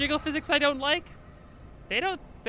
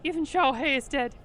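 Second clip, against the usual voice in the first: loud, rising into a cry on hit me; grief-stricken pleading; 5 semitones higher, 7 dB louder than usual. Acted. Guilty character mourning Xiao Hei, begging to be hit. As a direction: break down and beg. Character grieves, begs blows.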